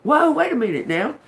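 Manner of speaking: high, loud startled voice; acted realization. Listener's younger self snapping out of it, high startled cry. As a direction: play the sudden wake-up, high and loud. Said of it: "was like".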